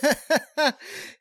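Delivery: short courtesy chuckle; a polite little laugh. Real, not acted. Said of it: "That was a courtesy laugh".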